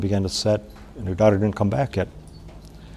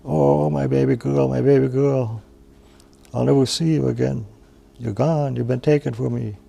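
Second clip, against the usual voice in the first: grieving lament; 4 semitones higher than usual. Acted. Old mother weeping over the blanket, keening lament. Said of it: "began to cry over it".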